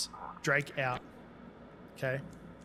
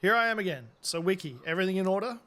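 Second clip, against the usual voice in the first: put-on gruff old fisherman; 4 semitones higher, 4 dB louder than usual. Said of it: "Old fisherman".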